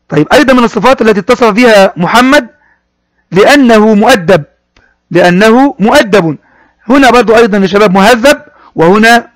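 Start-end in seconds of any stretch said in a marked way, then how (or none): 3.3-4.4 slow model reading. Shown as a demonstration. Teacher models phrase slowly. 5.1-6.4 slow model reading. Shown as a demonstration. Teacher repeats the phrase.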